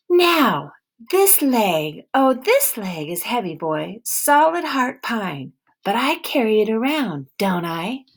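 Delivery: a suspicious woman with a hint of an accent, guarding her barn; stern wary woman. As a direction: hold your ground and interrogate him. Woman shows wooden leg.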